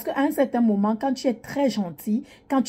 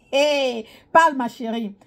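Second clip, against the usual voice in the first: usual speaking voice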